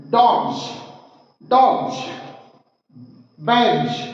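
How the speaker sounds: "डॉग्स" and "बैग्स" ending in a voiced gz; zooming sound. Shown as a demonstration. Teacher drills words ending in G, "डॉग्स" and "बैग्स" with z endings. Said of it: "zooming sound निकलना चाहिए".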